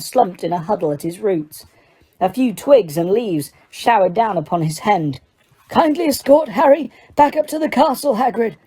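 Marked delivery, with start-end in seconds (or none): 5.7-8.6 sharp. A narrator's reading. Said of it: "said Dumbledore sharply".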